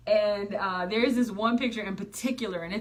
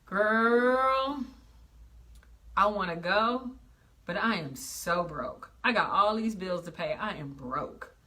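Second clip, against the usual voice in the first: whiny complaining friend; 4 semitones lower, slower than usual. Retold or imitated. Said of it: "They say this".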